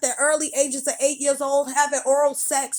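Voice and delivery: furious lecture; angry rant. Real, not acted. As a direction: let it all out at them. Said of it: "That's why I spoke angrily".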